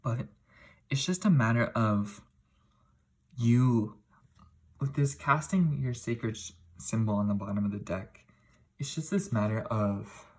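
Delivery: throat closing, strained words; choked up. Real, not acted. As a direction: push words past a closed throat. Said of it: "my throat is really closed up".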